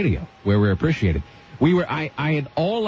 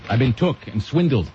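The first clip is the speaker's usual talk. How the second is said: imitating Malcolm X. Host griping about parking, quoting Malcolm X, mock oratory. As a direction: build it up like a fiery speech, peak on bamboozled. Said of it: "as Malcolm X would say".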